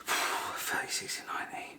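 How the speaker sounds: muttered. Real, not acted. Working out a third.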